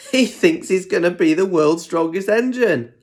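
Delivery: lightly voiced chuckling Thomas; laughing. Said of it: "laughed Thomas".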